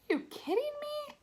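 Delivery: high, hushed disbelief; surprised. A narrator's reading. Mom hears gossip from dad, hushed surprise. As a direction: gasp it out in a whisper. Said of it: "like she was surprised".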